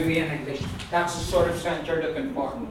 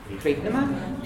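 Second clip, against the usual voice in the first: "Creepnema" with "Creep" stressed, "nema" slid over; stress on first part; slower than usual. Shown as a demonstration. Teacher modelling it, "Creepnema" stressed on "Creep". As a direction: hit "Creep" and glide lightly through "nema". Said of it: "you're gonna slide over this".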